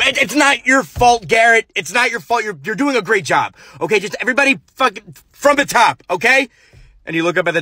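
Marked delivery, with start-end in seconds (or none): 0.0-3.6 high, soothing, calming tone; calm the actor down; forced reassurance. Acted. Director reassures Garrett he's doing great. 3.8-6.5 fast, high, curt; impatient restart. Acted. Director orders everyone from the top, impatiently.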